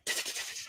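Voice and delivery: quiet, voiceless stuttered ticking; soft whispered sound effect; imitated whispered noise. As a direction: make a hushed t-t-t with the tongue. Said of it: "You're just whispering".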